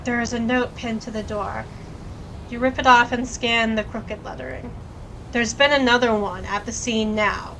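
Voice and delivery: even game-text read; story narration. A narrator's reading. Reads the game text aloud.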